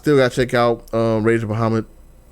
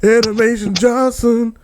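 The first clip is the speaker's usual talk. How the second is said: smooth host voice; 13 semitones higher, 5 dB louder, slower than usual. Pretend. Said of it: "smooth silky vocals".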